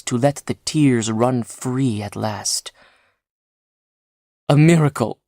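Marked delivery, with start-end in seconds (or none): 4.5-5.2 a touch of a sob, higher and louder; mild tearful relief; sobbing. Acted. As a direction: choke out the words through happy tears. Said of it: "he sobbed".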